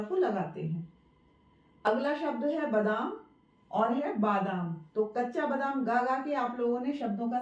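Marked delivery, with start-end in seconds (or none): 2.7-3.1 बादाम with a short first vowel, "badaam"; wrong short vowel. Shown as a demonstration. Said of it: "ये बादाम नहीं होता है". 4.2-4.7 बादाम with a long first आ, "baadaam"; correct long vowel. Shown as a demonstration. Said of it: "बादाम होता है".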